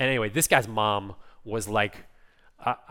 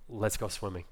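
soft, slightly lowered voice; gentle reply; 3 semitones lower, 6 dB quieter than usual. Retold or imitated. God answering a plea to go swimming, softly and gently voiced. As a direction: answer the plea quietly and tenderly.

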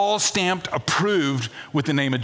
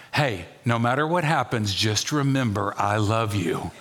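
ominous tender; 5 semitones lower than usual. Retold or imitated. Spouse grabbing your face.

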